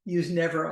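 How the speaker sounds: never said firmly with stress; underlining never. Shown as a demonstration. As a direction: press down on never. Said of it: "I underline the word never".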